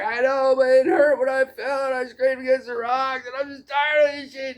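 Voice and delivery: high, raw, tearful rant; upset kid. Retold or imitated. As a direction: whine it out, fed up and near tears. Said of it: "he was just raged out".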